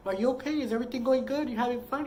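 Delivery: gentle check-in. Retold or imitated. Partner on a phone call while he's out, gentle check-in. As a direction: lightly reenact a sweet little check-in.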